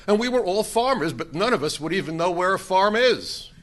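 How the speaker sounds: high, animated imitation of a bragging driver; storyteller voicing a gleeful cheat; retold Lebanese driver. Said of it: "the driver was from Lebanon".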